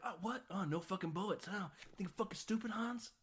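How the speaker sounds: mocking McClane. McClane taunting Hans, quoted.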